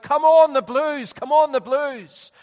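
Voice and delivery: high, loud terrace cry; drawn-out mock fan shout; imitated football shout. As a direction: cheer the team on from the stands. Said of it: "they're shouting out".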